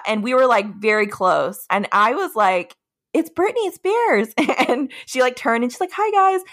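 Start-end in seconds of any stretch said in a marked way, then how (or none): 3.1-4.3 high, drawn-out fangirl squeal, imitated; starstruck excitement. Retelling spotting a star up close. 5.9-6.4 high-pitched imitated greeting of a singer. Imitating the star greeting fans.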